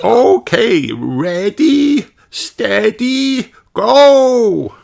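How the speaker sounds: high teacher call to start race. A narrator's reading. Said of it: "calls Madame Gazelle".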